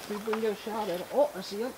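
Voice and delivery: hushed hunter's whisper. Real, not acted. Stalking a squirrel quietly.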